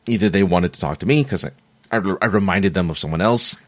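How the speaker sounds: talking through hiccups; hiccuping between words. Real, not acted. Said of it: "Excuse me, I have the hiccups".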